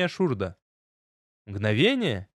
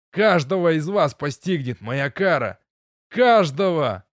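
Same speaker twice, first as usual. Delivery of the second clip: furious yelling; 5 dB louder than usual. Acted. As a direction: bellow it at the sky in rage. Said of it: "Ревел я".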